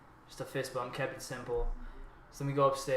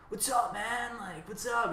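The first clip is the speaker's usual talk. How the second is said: higher-pitched, easygoing neighbor greeting; overfamiliar neighbor; 9 semitones higher, slower than usual. Retold or imitated. Neighbor treating the dealer's house as his own, overfamiliar greeting. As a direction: act out a guy making himself at home. Voices neighbor making himself at home.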